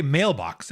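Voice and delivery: mailbox as MAIL-BOX; two stressed syllables. Shown as a demonstration. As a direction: give both halves of mailbox weight. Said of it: "there are two stressed syllables in mailbox".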